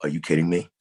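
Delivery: retold disbelief, said close to his normal voice; a first, half-whispered-in-spirit "are you kidding me"; stunned disbelief. Actor recalling the casting call, mild disbelief. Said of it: "and I'm like".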